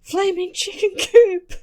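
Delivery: high, loud, slow screech; screeching battle cry. Acted. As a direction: charge in screaming a war cry. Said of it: "He screeched as he charged toward the shadowy figure".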